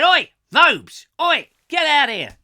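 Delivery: high, loud hammed-up summons; mock yelling visitor. Visitor calling presenter to the door, mock yell. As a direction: holler it like an irate caller. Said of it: "She said".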